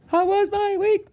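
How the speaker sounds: mock announcer. Vlogger opening a segment, a high hammed-up intro call. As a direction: belt it like a show opener. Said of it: "let's do a little bit of".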